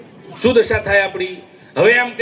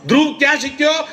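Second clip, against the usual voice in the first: rhetorical shout; 4 semitones higher than usual. Real, not acted. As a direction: call the question out to the crowd. Rhetorical question to the crowd.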